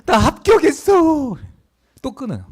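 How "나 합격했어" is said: high, slow acted shout; ringing loud announcement. Student telling dad of passing, ringing loud shout. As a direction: stretch the good news into a loud, high yell. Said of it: "큰 소리로 쩌렁쩌렁하게".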